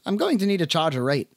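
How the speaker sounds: put-on lightly barked lines in an Irish accent; brusque bar owner with a hint of Irish. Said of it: "she barked in an Irish accent".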